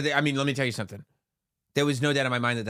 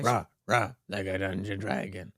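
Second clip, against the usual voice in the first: dragon roar; 4 semitones lower than usual. Retold or imitated. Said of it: "not the way you're doing it".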